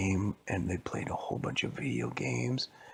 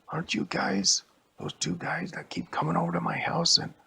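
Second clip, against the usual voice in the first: accusing neighbor; 9 semitones higher, 6 dB louder than usual. Acted.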